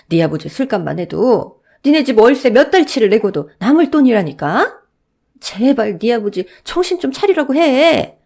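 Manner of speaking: a fed-up shopkeeper losing patience; exasperated shop owner. Acted. Shop owner telling the boy her patience ran out, exasperated.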